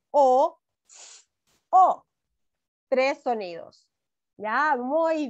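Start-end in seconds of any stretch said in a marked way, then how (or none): 0.1-2.1 the vowel "o" said alone, louder each time; sounds isolated. Shown as a demonstration. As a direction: sound out the single "o" clearly. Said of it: "Tres, ¿cierto?". (sonido "o" aislado y marcado)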